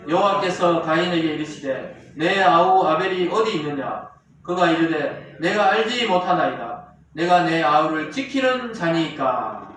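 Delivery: slow, measured Bible reading; scripture reading. Acted. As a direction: read the verse out formally, drawing it out.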